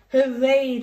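high, loud hooray; cheering. A narrator's reading. Children cheering at Grandpa's invitation, excited. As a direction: cheer with joy. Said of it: "cheered Pepper and George".

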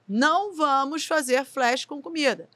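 slow, measured no-nonsense instruction; firm instruction. Retold or imitated. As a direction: spell out the rule slowly. Relaying boss's ban to cameraman.

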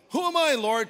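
high, loud plea; incredulous protest. Acted. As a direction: protest to the Lord in disbelief. Replaying Gideon's protest.

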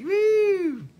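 a high, gleeful woo; excited whoop. Pretend. Drummer whooping about going to another planet, excited. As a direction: whoop like you're blasting off. Cosmic drum-trip whoop.

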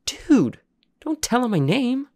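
high, loud frightened hiss of protest; panicked protest. Acted. Terrified boy scolding his friend in front of the dog, high and loud. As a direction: beg him to stop, terrified. Jacob panicked whisper-yell.

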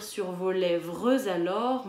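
lèvres alors with an overdone z link; teacher overdoing the lèvres alors liaison; exaggerated liaison. Shown as a demonstration. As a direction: lean on the z between lèvres and alors. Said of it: "je l'exagère un petit peu".

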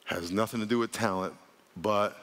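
deliberate line left hanging on a low "but"; pause for emphasis. Real, not acted. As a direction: stop dead after "but". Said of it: "then I'm gonna pause for emphasis".

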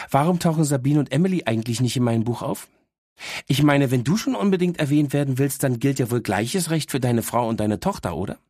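a know-it-all little dog teasing her owner; cheeky talking dog. Acted. Dog Miss Happy speaks. (leicht gesprochene, vorlaute Hündin)

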